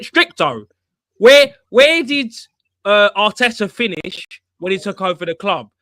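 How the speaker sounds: high, loud mock Jez. Friend retelling a fan argument, high loud mock voice. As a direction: squawk it out like the angry fan. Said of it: "and he went".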